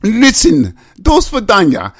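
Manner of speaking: put-on high, muddled British-Russian accent; botched British accent. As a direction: attempt British, straying into mock Russian. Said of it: "you can do everything but English".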